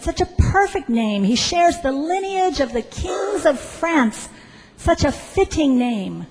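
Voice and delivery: lightly acted admiring official, lifting in pitch; acted lilting praise; mild gushing approval. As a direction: admire it with a touch of swooning. Civil servant gushes over the name.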